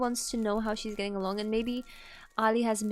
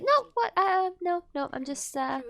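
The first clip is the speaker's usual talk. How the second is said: caught-out dad; 4 dB louder than usual. Retold or imitated. Dad caught reading the journal blurts a flustered denial. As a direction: deny snooping in a panic, then cover. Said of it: "It's like".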